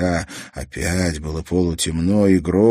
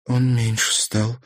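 frightened; 4 semitones higher than usual. Acted. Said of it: "проговорила Марьяна испуганно".

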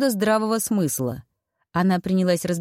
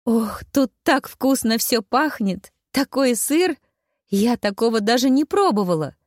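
delighted gushing; 5 semitones higher than usual. A narrator's reading. Служанка Несс в восторге от еды, высоко и восторженно. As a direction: gush with childlike joy at the food. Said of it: "Молодая женщина так радовалась".

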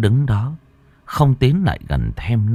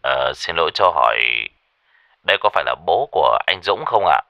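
lower, steady polite official; low warm man's voice; 4 semitones lower, faster than usual. Acted. Caller from the hospital politely asking the father. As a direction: speak calmly and politely. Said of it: "giọng nói của một người đàn ông trầm ấm".

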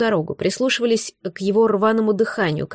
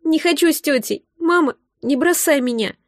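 anguished moan; 5 semitones higher than usual.

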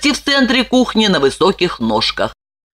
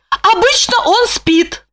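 much higher woman's voice, slower, apologetic; Lipochka. A narrator's reading. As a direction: explain nervously.

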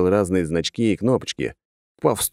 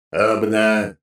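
heavy metal robot voice; clunky robot start; booming metallic robot. Acted. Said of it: "своим толстым металлическим голосом".

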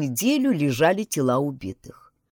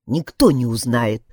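low, firm and stern; 6 semitones lower, 4 dB louder than usual. A narrator's reading. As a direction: lay it down sternly. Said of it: "строго сказал Коля". (строго)

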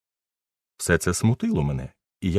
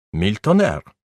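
growled oath; 3 semitones higher, 4 dB louder, slower than usual. Acted. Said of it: "Прогарчав принц де Жабокряк".

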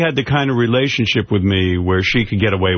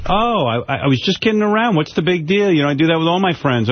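higher, quicker airy woman's voice; mock dismissive woman; 6 semitones higher than usual. Mocking the woman who slapped him, airy and high. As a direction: brush it off in a light mocking falsetto. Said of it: "She goes".

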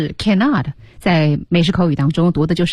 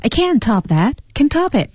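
higher-pitched acted line, jumping up on the repeat; acted exclamation; 6 semitones higher than usual. Teacher acting out the character's line for students, frantic and higher. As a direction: re-enact a frantic character, pitch leaping at the end.

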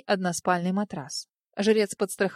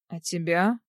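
lower, hollow echo of a question; 4 semitones lower than usual. A narrator's reading. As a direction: ask it back low and muffled. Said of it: "глухим голосом переспросил Эль".

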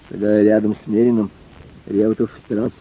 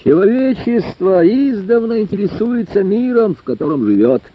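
orator's declamation; 8 semitones higher than usual. A narrator's reading. Lecturer opens his talk to the village club hall, declaiming. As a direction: declaim it grandly from the rostrum. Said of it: "трибунно бросил в зал".

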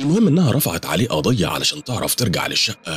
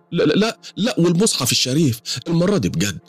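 higher, pleading woman's voice, close to tears; pitched-up, pleading storyteller's woman; tearful woman; 12 semitones higher than usual. Acted. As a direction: voice the frightened client as she pours out her troubles. Suad denies lying.

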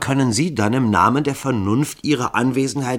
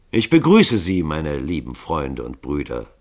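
monoton; 5 semitones lower than usual. Acted. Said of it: "mit seiner monotonen, gleichmäßigen Stimme".

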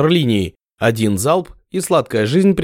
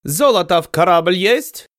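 slow, high, mangled foreign question; broken-accent demand; 6 semitones higher than usual. Acted. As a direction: Ottoman demanding gold from ship, broken accent. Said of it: "коверкая слова".

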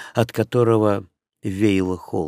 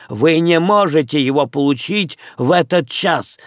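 сердитый крик; 5 semitones higher than usual. Acted. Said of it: "крикнул в ответ хозяин".

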